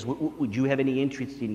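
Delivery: a light stammering imitation of the bishop; mimicking the bishop. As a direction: gently mimic his stammer. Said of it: "I mimicked his voice".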